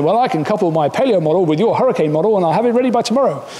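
eager scientist quote. Retold or imitated. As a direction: rattle off the promise quickly, overconfident. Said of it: "somebody comes in".

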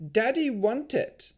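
very high, slow golem; high, slow creature voice; childlike golem. A narrator's reading. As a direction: insist like a simple, childlike creature.

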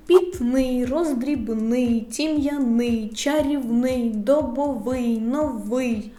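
протяжно виділи ИЙ: «Пітний, роздрібний»; повільний перелік із наголошеним кінцем: «чарівний, добовий, новий»; наголос на ИЙ. Shown as a demonstration. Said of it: "Слова з наголосом на". (останній склад наголошений, як «тім'яний»)

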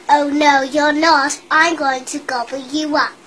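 loud growling troll threat. Acted. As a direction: bark it like a greedy troll. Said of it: "said the troll".

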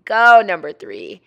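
loud, punched GO, falling after; emphatic voice-over cheer. Pretend. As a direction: cheer hard, hitting the word "go". Cheers again, harder.

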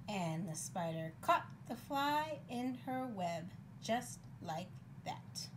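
measured reading, slowing at the end; picture-book narration. A narrator's reading. Reader telling how spider caught fly, storybook narration. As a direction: draw out the final words for small listeners.

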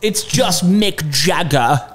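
slow, lightly imitated wide-mouthed British rocker; a rock singer. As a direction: lightly stretch the vowels in a British accent. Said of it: "I think it's just wide-mouthed".

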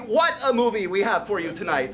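proud, booming host voice; grand showman announcement. Shown as a demonstration. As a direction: punch it like a showman. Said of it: "That's what I mean".

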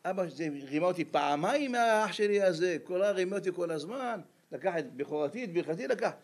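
plaintive retold protest; tearful complaint, acted. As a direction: imitate a son whining to his father about being cheated. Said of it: "ובוכה וצועק".

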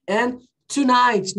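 And tonight read slowly and clearly; slow model reading. Shown as a demonstration. Teacher reading the phrase slowly for students. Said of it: "não é tonight".

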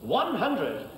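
darts score caller. Real, not acted.

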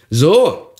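one loud, high burst of wrath; angry exclamation. A narrator's reading. Shoemaker enraged at the dwarf's tale, angry exclamation. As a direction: burst out angrily, pitch leaping up. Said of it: "rief der Schuster im Zorn".

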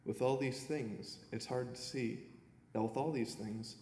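earnest poem reading with pauses between lines; poem recital. Acted. Young poet reads his prize poem to the audience, earnest recital. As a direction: read each line as a verse, letting it land.

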